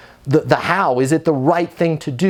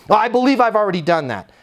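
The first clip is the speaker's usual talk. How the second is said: high, quick resident voice; quick mock protest, pitched up; upset resident protesting; 6 semitones higher, faster than usual. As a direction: play a put-out resident pushing back. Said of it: "current resident that's upset".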